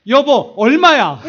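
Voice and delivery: drawn-out, very loud, half laughing; loud, slow demand. Retold or imitated. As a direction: demand the price from his wife. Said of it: "제가 뭐라고 했냐면". (아내에게 크게 늘여 묻는 얼마야)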